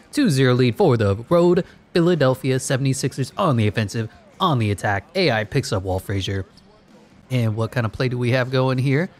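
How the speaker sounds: lively basketball commentary; play-by-play. Pretend. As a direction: call the game with rising interest. Calls the simulated game live.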